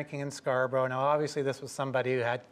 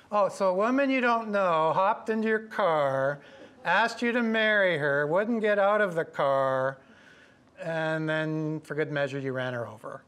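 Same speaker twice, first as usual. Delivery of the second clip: sarcastic cop; 3 semitones higher, 3 dB louder than usual. Retold or imitated. Cop's sarcastic recap of story.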